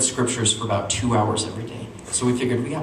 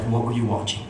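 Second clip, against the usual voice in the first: stern mom; 2 semitones lower, 4 dB quieter than usual. Retold or imitated. Mom confronting kids at the TV, controlled sternness. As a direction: imitate a suspicious mother keeping it level. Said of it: "had fire in her eyes".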